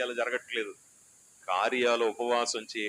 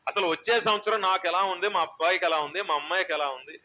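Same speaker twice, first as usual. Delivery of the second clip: worried asker; 5 semitones higher, 4 dB louder than usual. Retold or imitated.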